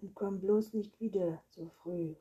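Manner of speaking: loud, grumpy warning; called out. A narrator's reading. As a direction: call after someone, peeved. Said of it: "rief der Vampir".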